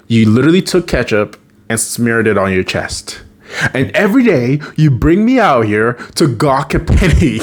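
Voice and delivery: lightly acted irritation, rising at the end; mildly mad. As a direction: retell a mildly annoyed complaint. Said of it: "gets a little bit mad".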